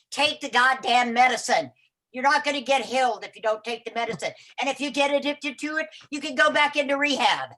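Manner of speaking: exasperated husband. Retold or imitated. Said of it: "her husband goes".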